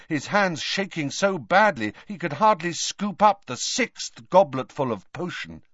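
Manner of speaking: usual speaking voice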